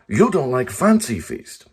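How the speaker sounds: mock ad voice. Repeats mock ad line.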